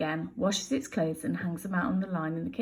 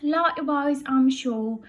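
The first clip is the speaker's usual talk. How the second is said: prim Betty; 7 semitones higher, 5 dB louder, slower than usual. Acted. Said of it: "Burglar Betty says".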